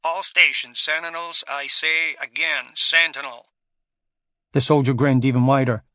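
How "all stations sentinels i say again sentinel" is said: controller over crackling radio; crackly radio voice. Acted. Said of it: "crackled over the radio".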